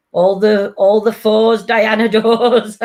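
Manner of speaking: slow drawn-out bingo call with a laugh; bingo caller. Pretend. Calling bingo numbers with rhymes.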